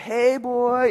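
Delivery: casual, pretty woman's voice, calling out. Demonstrating a skit scene: playing a pretty lady calling out. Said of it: "a pretty lady that goes by and says".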